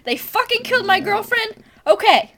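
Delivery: high, mocking quote of an unbothered hero; hammed-up careless shrug of a line; mock movie hero shrugging off his girlfriend's death; mock indifferent boyfriend. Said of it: "He's just like".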